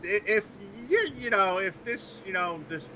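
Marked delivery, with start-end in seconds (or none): 0.0-0.5 very high squeal of laughter; laughing. Real, not acted. Still laughing at joke.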